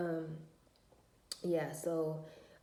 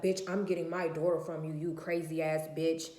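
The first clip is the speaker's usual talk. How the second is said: louder, hostile threat; aggressive ex; 5 dB louder than usual. Retold or imitated. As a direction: throw the insult at her like he means it. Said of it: "aggressive with me".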